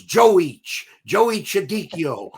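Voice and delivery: scolding gruff enforcer, laughing through it; hammed-up tirade at a bartender; imitating the enforcer yelling at the dumb bartender; mock angry mobster. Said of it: "He goes".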